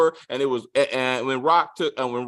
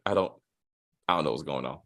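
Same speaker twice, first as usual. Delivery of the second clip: bewildered quote; 11 semitones lower, 8 dB quieter, faster than usual. Retold or imitated. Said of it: "I'm like".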